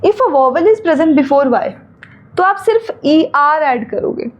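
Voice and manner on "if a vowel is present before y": reads the rule out slowly, word by word; slow rule reading. Shown as a demonstration. Teacher reading a rule aloud to students, slow and deliberate. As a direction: dictate the grammar rule slowly to the class.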